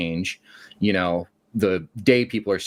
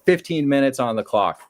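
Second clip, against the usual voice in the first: mock taunt again; 4 semitones higher than usual. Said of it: "I just slam his desk again and go".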